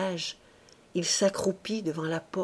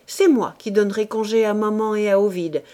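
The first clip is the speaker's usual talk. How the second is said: giggling wife; 2 semitones higher, 7 dB louder than usual. A narrator's reading. Wife mocking her husband, giggly and loud. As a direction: tease him as if tickled. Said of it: "se mit à rire".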